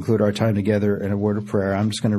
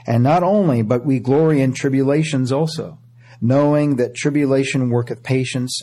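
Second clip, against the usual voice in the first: raised, ringing scripture reading; preaching scripture. Acted. Preacher reading Romans to the church, ringing. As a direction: proclaim the verses to the congregation.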